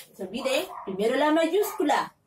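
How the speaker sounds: ordinary delivery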